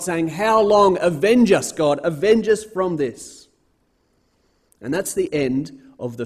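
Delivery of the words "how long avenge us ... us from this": loud, urgent plea for vengeance; crying out. Acted. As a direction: cry out to God, raised and pressing. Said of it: "they're crying out to God".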